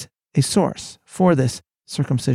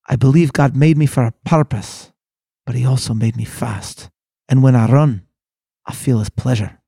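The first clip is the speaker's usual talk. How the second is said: lightly attempted Scottish accent, measured and emphatic; 3 dB louder than usual. Speaker quoting Liddell on why he runs, in an amateur Scottish accent. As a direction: quote it with a hint of Scottish burr. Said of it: "in my amazing Scottish accent".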